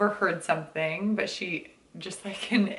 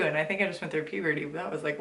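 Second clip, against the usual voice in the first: voice cracking; 3 semitones lower, 3 dB quieter, much faster than usual. Real, not acted. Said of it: "a weird bubble in my throat".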